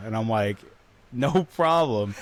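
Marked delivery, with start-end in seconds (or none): 1.1-2.2 slow casual reply. Retold or imitated.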